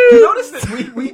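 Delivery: high, loud ghost wail with laughter; laughing ghost wail; ghostly voice. Acted. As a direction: keep the ghost voice going, laughing. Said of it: "You do, every time".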